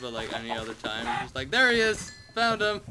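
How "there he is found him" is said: loud spotting call; mock shout. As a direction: call it out like you found him. Spotting friend by purple shirt.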